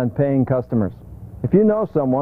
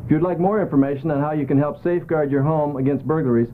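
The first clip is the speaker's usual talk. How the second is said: steady announcer PSA read; public service read. Acted. Crime prevention announcement to viewers, measured read.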